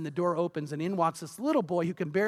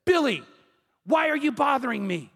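irritated dad, raised voice on the name; mildly acted annoyed scolding, starting louder; bothered father; 4 semitones higher, 3 dB louder than usual. Preacher as woken dad snapping at his boy, bothered. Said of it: "he's all bothered by the light".

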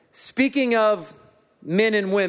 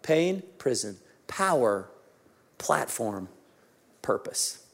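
softer and lower, fading to a whisper; quiet recap; 8 semitones lower, 6 dB quieter, slower than usual. Acted. Preacher repeats the five words softly, fading to a whisper. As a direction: let the list sink to a hush. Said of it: "Pain, unfortunately".

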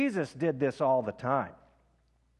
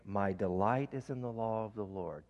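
breath prayer demo; 3 semitones lower, 4 dB quieter than usual. Shown as a demonstration. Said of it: "You breathe in and you say".

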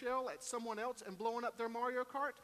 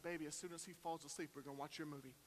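much softer, quick secret promise; hushed aside; 7 semitones lower, 11 dB quieter, faster than usual. Retold or imitated. Dad quietly promising daughter her movie later, hushed. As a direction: hush it so the brother won't hear. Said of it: "I pulled her aside".

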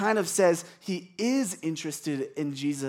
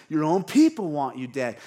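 louder, mean-spirited jab; a quick acted jab, meant to sting; 2 semitones lower, 5 dB louder than usual. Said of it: "He's mean".

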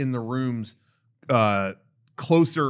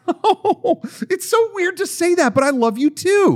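much higher, louder, squeaky flustered robot; imitating the robot confessing love back; bashful robot assistant; 14 semitones higher, 4 dB louder than usual. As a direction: gush a shy love reply as the AI. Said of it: "And then she went".

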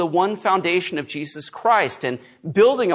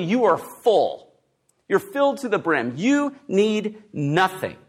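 sarcastic; 3 semitones higher than usual. Retold or imitated. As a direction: quote it with measured, understated sarcasm. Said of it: "a not so subtle tone of sarcasm".

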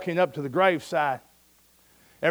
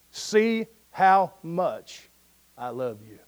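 tender grandpa; much slower than usual. Retold or imitated. Grandfather answering his granddaughter at the casket, very slow and tender. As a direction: savor each word like a loving old grandfather. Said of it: "with a great big smile".

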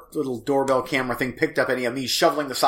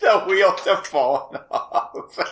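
slow, laughing helplessly; giggling, barely holding it together; 5 semitones higher, much slower than usual. Real, not acted.

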